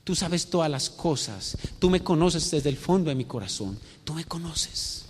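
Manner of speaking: softly spoken, subdued confession; a touch of sorrow in a quiet plea; understated acting of a grieving disciple; saddened reply. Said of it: "se entristece, empieza a llorar".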